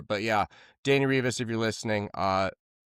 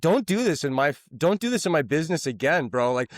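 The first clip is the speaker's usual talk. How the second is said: stern boss; 5 semitones higher, 4 dB louder than usual. Retold or imitated. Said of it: "he's like, he's like".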